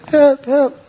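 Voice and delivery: high, loud frantic cry; panicked cry for help. Retold or imitated. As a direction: disciples crying out from the sinking boat. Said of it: "I saw them".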